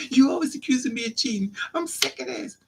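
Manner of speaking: high, climbing indignant squeal; hammed-up fed-up wail; mock screaming protest. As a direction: rant like the wronged party, pitch rising. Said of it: "He's screaming".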